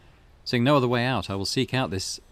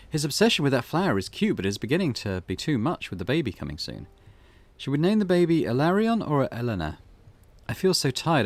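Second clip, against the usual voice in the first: light woman's voice; 4 semitones higher, 4 dB louder than usual. Acted. Diary read in raised voice.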